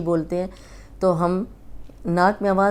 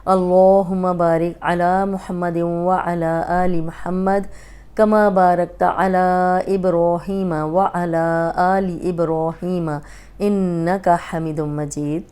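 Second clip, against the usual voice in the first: slow, measured prayer recitation; much slower than usual. Acted. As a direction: chant the blessing slowly and evenly. Recites durood at start. (درود کی دھیمی تلاوت)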